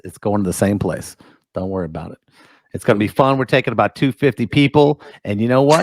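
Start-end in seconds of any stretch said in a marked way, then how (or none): 3.4-5.0 "two fifty" stressed for the crowd; emphatic. Real, not acted. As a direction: lean on "two fifty people". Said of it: "He said it with emphasis".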